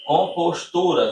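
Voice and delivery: "compostura" slowly, weight on TU; "compostura" stretched as com-pos-TU-ra; stress on TU. Shown as a demonstration. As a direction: make tu the strongest syllable of "compostura". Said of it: "Tu, né?".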